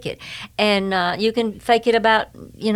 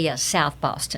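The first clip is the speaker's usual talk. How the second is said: "Yes, South Boston" lower, softer and slow; deadpan punchline; 3 semitones lower, 5 dB quieter than usual. Retold or imitated. Answering strangers with a slow, dry joke. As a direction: deliver it dry, like a straight-faced joke. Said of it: "I say".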